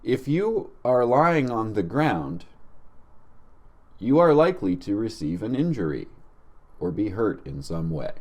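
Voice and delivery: a lightly voiced, very articulate PA system; articulating everything. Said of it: "like, articulating everything. Very professional".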